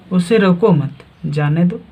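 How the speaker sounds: "रोको मत" as one phrase, then "जाने दो"; pause after मत. Shown as a demonstration. Teacher contrasting the two meanings, pause after मत. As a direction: join मत to रोको and break before जाने. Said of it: "जाने की बात हो रहा है".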